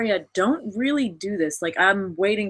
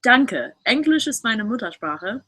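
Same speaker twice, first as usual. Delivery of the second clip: reading a comment aloud; 3 semitones higher than usual. Retold or imitated. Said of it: "I'm reading a comment that says".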